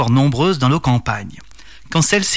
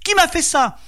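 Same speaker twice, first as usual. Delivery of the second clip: very high-pitched cry of a blinded fairy; cri; 13 semitones higher than usual. A narrator's reading. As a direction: cry out high, in a narrator's acted voice. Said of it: "elle se mit à crier". (cri très aigu de fée aveuglée)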